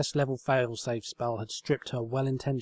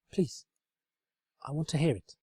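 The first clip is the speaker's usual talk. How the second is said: put-on higher, earnest young mare; sincere, eager explaining; higher pony voice, earnest; Twilight voice; 4 semitones higher than usual. A narrator's reading. Twilight urges.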